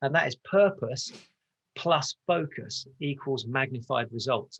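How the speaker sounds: very slow, spaced-out delivery. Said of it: "I'll say that really slowly".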